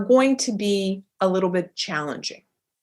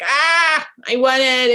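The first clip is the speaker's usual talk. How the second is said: longing; 4 semitones higher, 5 dB louder, slower than usual. Retold or imitated. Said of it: "you're just like".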